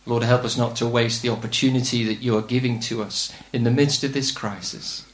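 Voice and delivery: low-pitched, measured prayer to God. Real, not acted. Preacher asks God's help in this crisis, praying. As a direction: lead the congregation in earnest prayer, pitched low.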